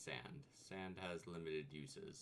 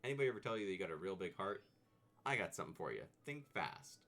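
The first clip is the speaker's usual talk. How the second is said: tough guy voice; 6 dB louder, faster than usual. Acted. Voices Macho dialogue.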